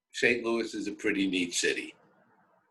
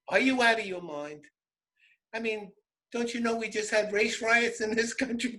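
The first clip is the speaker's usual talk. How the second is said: higher, disbelieving voice; incredulous friends; 6 semitones higher than usual. Retold or imitated. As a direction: ask if he's lost his mind.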